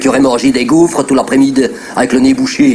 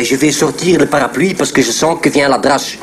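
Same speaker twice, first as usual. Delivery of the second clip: 1 Flemish accent; 2 semitones lower than usual. Shown as a demonstration. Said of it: "Le flamand, ça parle comme ça".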